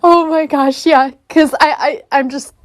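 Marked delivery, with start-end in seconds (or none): 0.0-1.1 slow, hushed, higher "holy shit"; drawn-out astonished gasp of words; stunned realisation. Retold or imitated. Retelling her reaction to the dream messages, hushed astonishment. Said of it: "And now I'm like".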